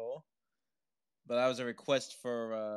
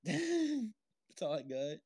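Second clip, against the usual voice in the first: laughing; 8 semitones higher, much slower than usual. Real, not acted. Laughing at own joke.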